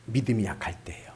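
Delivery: soft, fast, breathy whisper. Real, not acted. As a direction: whisper it like a secret. Whispered answer. (비밀 말하듯 속삭임)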